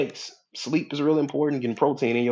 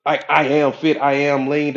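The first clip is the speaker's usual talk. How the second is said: louder affirmation; 2 semitones higher, 7 dB louder than usual. Shown as a demonstration. Preacher sounding out the affirmation louder for the crowd. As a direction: proclaim it louder, fully committed. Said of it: "I can sit here and go".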